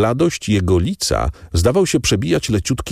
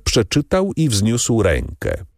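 usual speaking voice

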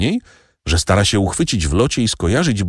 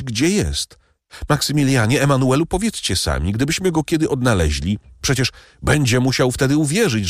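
put-on young woman's voice, raised and pleading; Julia pleading; 7 semitones higher than usual. A narrator's reading. Julia begs the count to find her benefactor, pleading higher. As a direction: beg him eagerly, the words pouring out.

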